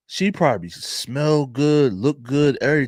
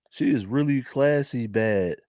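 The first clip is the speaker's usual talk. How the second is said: Philly accent. Real, not acted. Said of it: "You can hear all my Philly accent".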